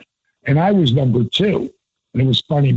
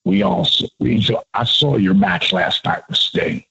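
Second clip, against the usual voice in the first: Michael Hayes voice; 3 semitones lower than usual. Retold or imitated. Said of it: "could do a dead-on Michael Hayes".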